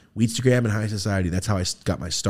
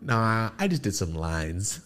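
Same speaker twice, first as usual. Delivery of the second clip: imitated nonchalance; 5 dB quieter than usual. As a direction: decline lazily as if it's no big deal. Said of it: "I just remember how nonchalant".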